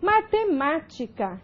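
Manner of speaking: slow "Matemática", stress on the MÁ before "tica"; stress on antepenultimate. Shown as a demonstration. Teacher showing the antepenúltima tônica in "Matemática", slow stressed MÁ. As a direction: spell out "Matemática" syllable by syllable, leaning on MÁ. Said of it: "a tônica é a antepenúltima".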